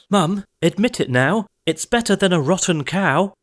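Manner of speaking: put-on high, gleeful boyish cry; excited cry. A narrator's reading. Jack shows his mother the huge beanstalk, high triumphant cry. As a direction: crow about it in triumph. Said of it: "Young Jack cried".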